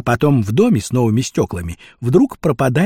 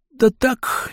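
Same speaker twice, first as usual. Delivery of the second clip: high, hesitant reply; unsure; 11 semitones higher than usual. Acted. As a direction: answer uncertainly in a raised voice. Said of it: "неуверенно ответил Вася". (неуверенно, высоким голосом)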